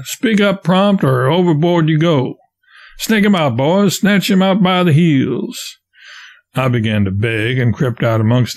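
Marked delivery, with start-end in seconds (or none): 0.0-5.8 higher, rough raftsman threat; bully the boy out of hiding. Acted.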